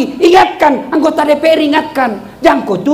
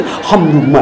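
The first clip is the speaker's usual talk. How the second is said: lightly mocking pious worshipper; 12 semitones lower than usual.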